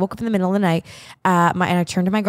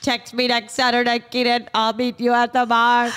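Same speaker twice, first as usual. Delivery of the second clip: lightly stiff mock robot. Friend imitating her college robot voice to Keenan, mild robot. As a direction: say it like a polite machine. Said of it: "my robot voice".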